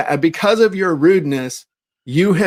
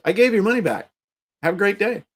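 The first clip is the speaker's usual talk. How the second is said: higher, sing-song breezy politeness; mock cheery reply; 5 semitones higher than usual. To an angry customer after the refund, a higher mock cheery brush-off. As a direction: kill them with sweetness.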